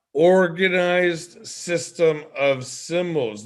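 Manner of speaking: said very slowly, word by word; a slow teacher's repeat; slow emphatic repeat. Shown as a demonstration. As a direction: stretch every word for emphasis. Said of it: "I'm gonna say that again".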